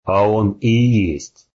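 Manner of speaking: slow, gurgling with blood. Acted. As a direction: bubble the words through blood. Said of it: "пробулькал Матадор".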